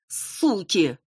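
put-on girl in the cap yelling at everyone; yelling curse. A narrator's reading. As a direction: yell it out angrily. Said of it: "завопила бейсболка".

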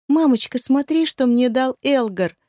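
высоко и громко, как ликующая девочка; похвастайся маме от души; радостный детский возглас. A narrator's reading. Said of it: "радостно воскликнула Айрин". (восторженная дочка зовёт маму)

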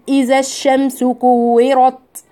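slow recited إذا الشمس كورت, alif dropped; slow recitation. Shown as a demonstration. Teacher gives her students an example. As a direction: recite it slowly as in the Quran. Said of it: "يعني مثلًا نقول".

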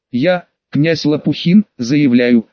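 slow, solemn proclamation. Acted. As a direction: proclaim it slowly and grandly. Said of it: "торжественным голосом начал он". (торжественно, медленно)

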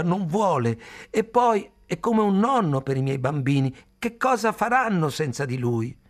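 high, loud desperate shout. A narrator's reading. Khalil to the grandmother, shouting high and loud. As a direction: cry out to stop them. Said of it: "gridò".

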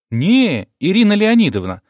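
put-on high, brisk child's voice; child reporting. A narrator's reading. Child on phone correcting mom's name, high and brisk. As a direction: report it smartly like a schoolkid. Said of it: "отрапортовал малыш".

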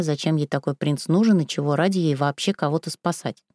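plain reading voice

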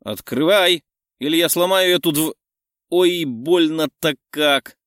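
furious friend yelling; angry shout. Acted. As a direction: yell and kick the door, then yelp. Angry friend pounding door.

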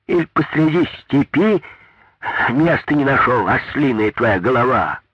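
high, loud scolding; scolding old woman. A narrator's reading. Little old woman scolding the foreman loudly. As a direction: berate the foreman as an ass.

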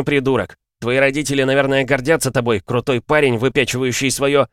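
зло, выше и громче; огрызнуться, нарастая; огрызается. Acted. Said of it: "Рэй огрызнулся". (злой выпад)

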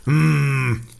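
low clenched mm through the teeth; teeth-grinding groan. A narrator's reading. Young man holding back rage at the old hunter, clenched groan. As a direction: hold back anger in a quiet, low hum. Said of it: "парень скрипнул зубами".

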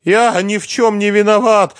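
high, loud tearful wail; still crying. A narrator's reading. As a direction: wail your innocence through tears. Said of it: "продолжал плакать Лихоносов".

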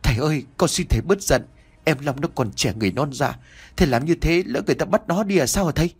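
fast, desperate begging to father; pleading plea. Acted. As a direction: beg him to calm down, quickly. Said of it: "giọng nói thảm thiết van xin".

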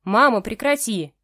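loud, slow, embarrassed protest; indignant. Acted. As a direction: tell your mother to stop it now. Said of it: "возмутился Игнат".

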